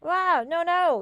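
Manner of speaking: ordinary talk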